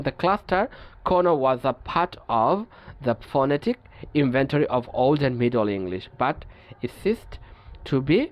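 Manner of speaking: each English word read out slowly and evenly; measured, deliberate reading of a textbook rule. Acted. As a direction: dictate the rule slowly to the class.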